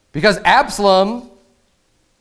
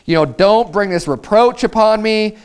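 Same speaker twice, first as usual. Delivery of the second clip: pleading; 5 semitones higher than usual. Retold or imitated. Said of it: "she's pleading with them".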